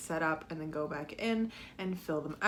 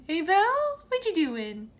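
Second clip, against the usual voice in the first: high, louder sing-out greeting to a pet; sudden high-pitched pet-greeting voice; calling to a pet; 8 semitones higher, 4 dB louder than usual. Real, not acted. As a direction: coo a hello at the animal who just walked in. Greets Bella who comes in.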